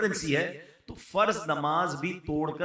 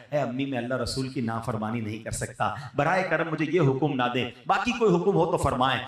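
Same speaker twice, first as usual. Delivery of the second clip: gently pleading; 5 semitones lower than usual. Retold or imitated. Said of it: "ہاتھ جوڑ کر کہنا ہے".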